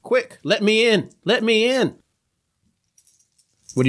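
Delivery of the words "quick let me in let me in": high, pleading imitation of a friend; fake Sludge voice. Monster faking Sludge's voice at the door, pleading. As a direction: beg to be let in, pitched up. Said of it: "sounds like your good friend, Sludge".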